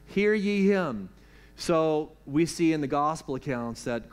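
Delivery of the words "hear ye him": solemn King James reading. Shown as a demonstration. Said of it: "It sounds better in the King James Version".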